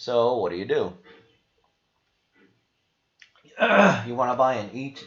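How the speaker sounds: voice giving out, croaky. Explaining an ETF investment to viewers while losing voice. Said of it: "I'm losing my voice".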